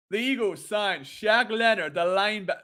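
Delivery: clumsy American announcer attempt; American accent. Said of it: "do an American accent".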